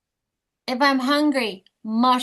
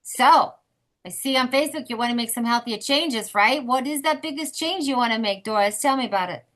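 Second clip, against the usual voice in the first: detective voice. Shown as a demonstration. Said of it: "then I detect".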